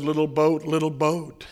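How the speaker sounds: put-on hushed loving boy; tender whisper to boat. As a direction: talk to it like a puppy.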